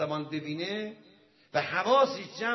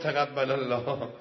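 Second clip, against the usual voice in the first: slow, laughing blessing; teasing laugh as the cleric blesses him; 2 semitones lower, 5 dB louder than usual. Retold or imitated. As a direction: chuckle through the blessing. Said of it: "ایشون هم خندید".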